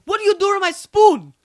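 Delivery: high, loud shocked mother; outraged mom voice. Retold or imitated. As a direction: demand it like a stunned mom.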